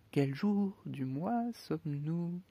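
slow, emphatic question; Hatter questioning. Acted. The Hatter turning on Alice, slow and suspicious. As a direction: lean on each word, suspicious. Hatter suddenly asks date.

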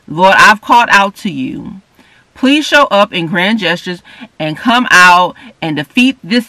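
imitating her own loud, pleading prayer to God; demanding prayer. Woman retells crying out to God in anxiety, mildly hammed. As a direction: call out to the Lord demanding he show up now. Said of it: "getting my naming on".

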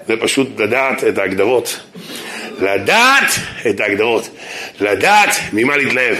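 1 emphatic. Acted. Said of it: "emphatic slow lesson".

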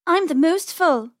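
bragging little rabbit, high and slow; Penny. A narrator's reading. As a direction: boast as a bunny sister. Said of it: "They continued to argue".

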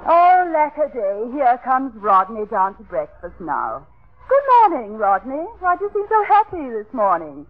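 hammed-up swooning English wife; melodramatic English lady. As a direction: play the overwrought period heroine. Parody English drama heroine.

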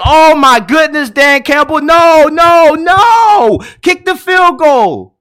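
high, loud pleading no no no; frantic pleading. Retold or imitated. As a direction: beg the coach to kick it. Pleading with coach to kick.

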